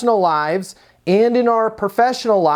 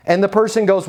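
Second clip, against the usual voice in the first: usual speaking voice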